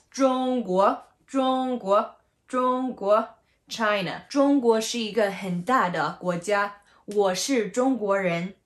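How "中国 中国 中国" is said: 中国 with 中 high and level, 国 rising; deliberate 中国, level then upward; first and second tone. Shown as a demonstration. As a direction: hold 中 even, then lift 国. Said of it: "First and second".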